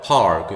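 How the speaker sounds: 'park' slowly with 아 plus English r; slow model 'park', r clearly curled; r-coloured ah. Shown as a demonstration. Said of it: "이제 아 발음이 나요". ('park'를 천천히, 아에 r을 붙여서)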